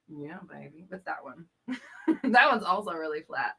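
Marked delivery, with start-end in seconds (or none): 0.1-0.9 a soft mock Austin Powers catchphrase; softer, lightly voiced Austin Powers. Host imitates Austin Powers for chat, soft and mock. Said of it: "what's this one that's Austin Powers?".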